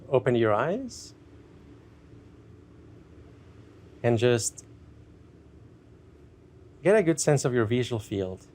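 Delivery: unhurried meditation guide with long pauses; guided meditation. Acted. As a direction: ease listeners gently into checking in with themselves.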